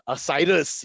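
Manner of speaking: proud announcement of a name; firm, proud reply; with great pride. Retold or imitated. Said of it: "you know, with great pride".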